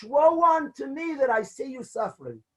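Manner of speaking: lightly retold cry of woe; a touch of wailing grief; mild anguished cry. Father-in-law crying over the suffering rabbi, mild anguish. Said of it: "cries out in anguish".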